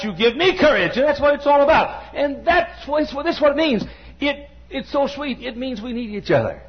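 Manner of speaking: lifted, insistent sermon delivery; fervent preaching. Real, not acted. Preacher telling his people we need each other, fervent. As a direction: drive the point home to the congregation.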